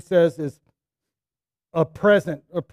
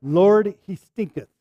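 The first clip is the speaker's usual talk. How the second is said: mock King James line; 2 semitones lower than usual. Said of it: "That's my gift to you".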